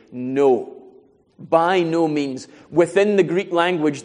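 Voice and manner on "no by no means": slow, firm stress on each word of "By no means"; emphatic denial. Retold or imitated. Preacher voices Paul's answer to whether God failed, emphatically. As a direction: deliver "no" and "By no means" as an absolute refusal. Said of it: "Paul answers emphatically".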